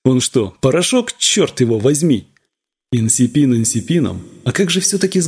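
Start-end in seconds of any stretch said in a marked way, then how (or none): none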